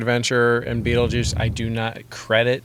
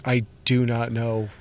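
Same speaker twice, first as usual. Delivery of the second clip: lost Michael Keaton; slower than usual. Retold or imitated. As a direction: trail off, then squeak out the last word. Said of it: "Michael Keaton ... was just like".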